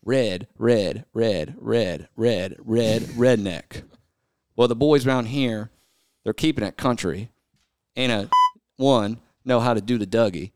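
song lyrics read flat, half-spoken; deadpan recital of country lyrics; reading country lyrics aloud in a mostly speaking voice. Pretend. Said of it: "listen in as the speaker read sings us some country songs".

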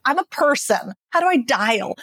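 lightly voiced bewildered person, pitch rising; mock confused manager. Leader puzzling over the strength and warmth dials, mildly bewildered. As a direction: play it puzzled and a bit exasperated. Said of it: "where you're like".

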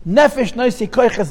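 Nefesh stressed at the front of the phrase. Shown as a demonstration. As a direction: lean on the opening word, Nefesh. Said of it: "the emphasis on the word Nefesh".

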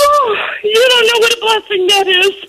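tearful gratitude. Real, not acted. Winner moved to tears.

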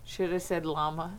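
real whisper, soft and unvoiced; whispered aside. Real, not acted. Aside during recording.

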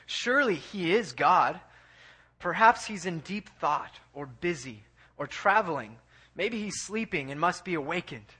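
mild mockery, opening emphatic then easing; retold taunt with lively, swinging tune. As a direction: needle them with mock suggestions. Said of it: "Elijah's just taunting them".

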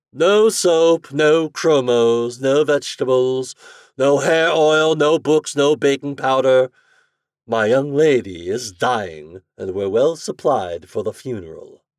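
loud, clipped doorkeeper listing refusals; brusque butler. Acted. Butler turning away a supposed peddler, loud and brusque. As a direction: fend off the peddler at the door.

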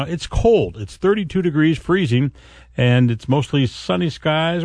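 upbeat morning forecast delivery; radio weather read. Acted. Host reading the forecast to morning listeners, breezy announcer read.

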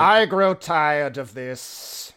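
slow, weary undead aristocrat; vampire voice. Acted. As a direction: speak like a bored ancient count. Vampire character throughout.

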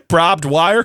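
"Barbed wire" garbled as "brobbed wire", questioning; mispronounced. Retold or imitated. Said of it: "you're saying it wrong".

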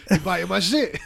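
loud laughing rapper bark; angry rapper voice. Retold or imitated. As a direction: bark it while cracking up. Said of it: "He's like".

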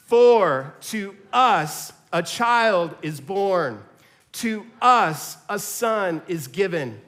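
congregation reading aloud together; slow group recitation of scripture; many voices in unison. Real, not acted. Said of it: "So out loud together".

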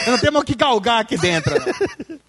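fast, laughing retort. Real, not acted. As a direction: rush the joke through a laugh. Joking reply, laughing. (rindo rápido)

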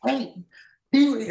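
high, urgent mock-panicked call; retold panic. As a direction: call out a name in rising alarm. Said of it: "now I'm in a panic".

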